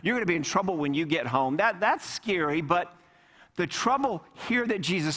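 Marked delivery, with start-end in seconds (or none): 0.0-1.6 quick, breezy, teasing; light, fast and casual; mock lighthearted. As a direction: toss it off like a parent's playful warning. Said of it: "It doesn't mean a lighthearted".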